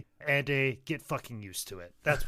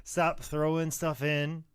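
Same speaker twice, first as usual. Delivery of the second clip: impatient listener voice; 3 semitones higher, 4 dB louder than usual. Retold or imitated. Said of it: "where you're like".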